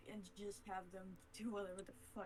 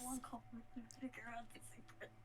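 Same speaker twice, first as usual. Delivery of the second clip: whispering; 6 dB quieter than usual. Real, not acted. Aside about the secret.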